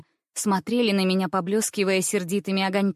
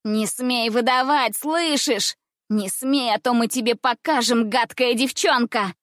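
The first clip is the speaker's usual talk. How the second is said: shouted threats; 4 semitones higher than usual. Acted. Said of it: "кричали они".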